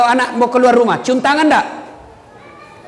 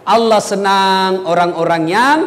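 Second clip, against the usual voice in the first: usual speaking voice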